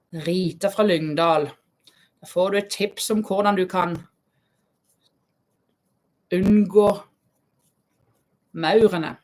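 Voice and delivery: tentative imitation of Southern Norwegian dialect; attempted Southern Norwegian dialect. Host trying out viewer Rita's dialect, imitated Southern Norwegian dialect. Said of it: "trying to speak your, uh, accent, I mean your, uh, dialect".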